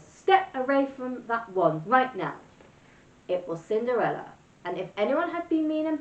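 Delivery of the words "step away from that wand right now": slow, stern, angry order; angry command. Acted. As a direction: spell out the threat slowly. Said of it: "an angry voice".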